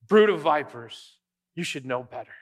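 stern rebuke. Retold or imitated. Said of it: "How does he address the religious people".

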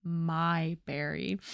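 low, slow and drawn out; tender murmur. Retold or imitated. Hero answers his sweetheart's joke about her name, tenderly. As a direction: savor it softly, like a lover's pet name. Lover's tender reply retold.

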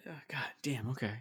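very soft, deflated grumble; quietly resigned, acted out; mock sulk. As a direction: give in under your breath, pretending to be hurt. Playing the rejected star giving in.

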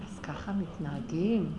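low, slow reproachful "אז ככה מתנהגים?" with a falling end on "מתנהגים"; שאלה נוזפת, נמוכה ואיטית; reproachful question. Retold or imitated. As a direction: lightly imitate him scolding "אז ככה מתנהגים?" low and slow. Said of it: "אז הוא אומר לי".

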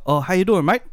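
imitating dad's Australian accent; lightly mock an Aussie greeting. Dad greeting an Australian tradie, put-on Aussie accent. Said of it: "it's just got this cool accent".

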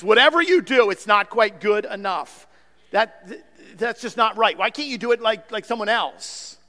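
a hint of a nagging, never-satisfied father; lightly mock the critical dad; intolerant perfectionist father. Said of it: "the tone of an intolerant perfectionist father".

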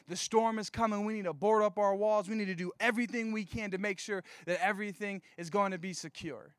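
mildly urgent, emphatic alarm; overreacting. Preacher imitates people who overreact to storms, mildly frantic. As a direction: insist as if bracing for disaster, lightly hammed up. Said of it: "just like overload. Like, they go to, like, the extreme".

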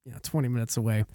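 put-on low, quiet old man's voice; soft, low ninety-year-old voice. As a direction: play a mild, unhurried elderly driver. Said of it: "ninety fucking year old man".

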